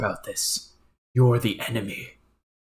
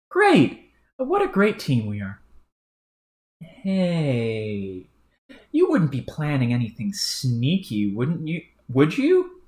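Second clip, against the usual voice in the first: suspicious troll; 3 semitones higher, slower than usual. Acted. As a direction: probe for a double-cross. Brash character voice.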